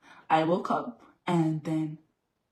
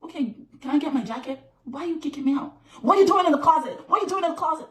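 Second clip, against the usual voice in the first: higher, louder, baffled questions; bewildered protest; 7 semitones higher, 4 dB louder, faster than usual. Retold or imitated. Recalling asking the bouncer why, in rising disbelief. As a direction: replay your own confusion as it hit you. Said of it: "I'm like".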